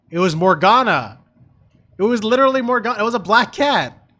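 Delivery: loud, emphatic fan outburst; excited insistence. Real, not acted. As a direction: hammer home the joke. Excitedly comparing cat to Morgana.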